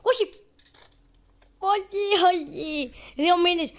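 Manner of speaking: high, loud cry of no; panicked shout. Real, not acted. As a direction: yell in alarm at the game. Πανικός στο παιχνίδι. (πανικόβλητη κραυγή)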